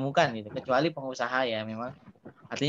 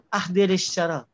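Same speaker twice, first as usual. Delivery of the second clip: Arab host's request; 3 semitones higher than usual. Retold or imitated. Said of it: "Nyebutnya itu".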